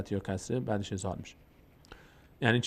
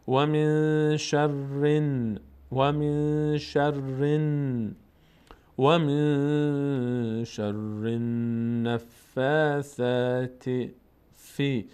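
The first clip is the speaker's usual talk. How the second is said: drawn-out chant; tajweed chant; slow recitation; much slower than usual. Shown as a demonstration. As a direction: recite slowly. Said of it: "recitation example".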